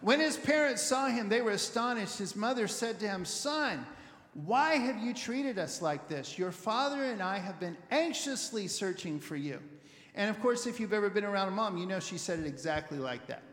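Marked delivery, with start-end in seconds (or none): 0.0-2.2 emphatic reading. Shown as a demonstration. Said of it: "more than just astonishment". 3.2-9.6 a mother speaking calmly and plainly; understated calm mother; calm, matter-of-fact. Retold or imitated. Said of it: "as calmly and matter-of-factly as I just did".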